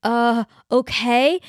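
hesitant, slowed uncle imitation; nervous uncle. Uncle answering his angry brother on the phone, mildly nervous. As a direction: imitate him stammering and unsure. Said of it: "so nervous".

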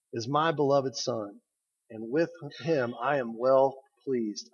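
slow, soft and proud; a father's quiet, loving pride; tender pride. Acted. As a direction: say it gently, full of pride. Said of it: "feel the pride in God's voice".

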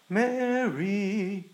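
drawn-out tender Mary; sweet lingering name; sweeter. Shown as a demonstration. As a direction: say her name like it delights you. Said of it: "a little more sweeter".

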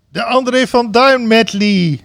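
slow announcer shout; announcer call. Retold or imitated. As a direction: call it out like a ringmaster. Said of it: "riep de spreekstalmeester".

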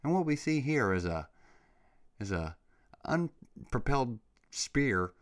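lightly voiced calm official narrating footage; a hint of a deadpan expert walking through videos; mock calm official. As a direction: parody a calm government briefing. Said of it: "calmly swapping, like, sliding through videos".

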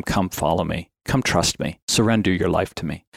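understated, reverent quote; gentle invitation. Retold or imitated. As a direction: quietly invite them, imitating a tender call. Voices Christ's invitation to parents.

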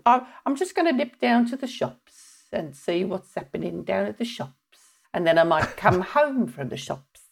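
lightly done Brummie monotone, no inflection; a hint of a flat Birmingham accent. Shown as a demonstration. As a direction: drone it in a Birmingham accent with no ups and downs. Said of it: "Birmingham accent's a bit like that".

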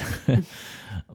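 brief, light laugh; short chuckle. Real, not acted. Amused by the quote just voiced, short chuckle. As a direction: let out a small real chuckle. Chuckles after voicing the mind.

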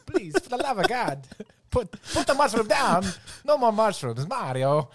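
Luigi begging Mario. Retold or imitated. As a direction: beg him to drop the mushroom. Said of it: "I'll be Luigi".

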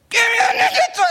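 put-on high shouted kid demand; headlock demand. Big brother in headlock mode, high shouted demand. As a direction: yell it while squeezing. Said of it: "I'm like".

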